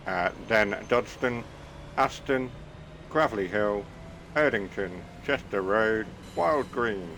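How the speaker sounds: second take of the onboard announcement; mock train announcement. Driver redoing the announcement for the camera, announcer style. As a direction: announce the stops like a train tannoy. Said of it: "Should we do that again?".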